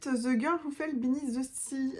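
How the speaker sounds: English title read slowly in a French accent; her French accent on an English title. Shown as a demonstration. Reading an English book title aloud in her own French accent. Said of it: "avec mon accent".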